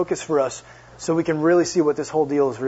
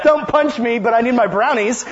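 pleading awkwardly; 5 semitones higher, 3 dB louder than usual. Retold or imitated. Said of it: "I'm like".

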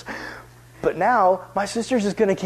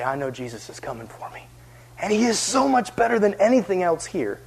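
quiet faith; 3 dB quieter than usual. Pretend. Quiet hopeful confession.

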